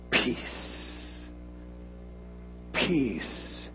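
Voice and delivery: soft, breathy calm; hushed calm. Retold or imitated. Jesus hushing the storm, soft and calm. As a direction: still the storm gently.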